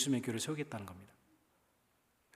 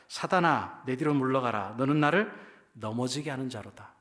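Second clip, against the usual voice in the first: stern rebuke; 5 dB louder than usual. Acted. Jesus rebukes Peter, quoted.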